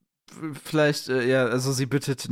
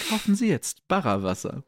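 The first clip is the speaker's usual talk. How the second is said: chipper 1950s ad; 3 semitones higher than usual. Pretend. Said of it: "Könnte eine Marke sein".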